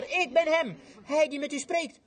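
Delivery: high, slow, ringing call of Jesus; preacher voicing Jesus calling the woman, high and slow. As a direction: lift it up and call her slowly, like the Lord himself.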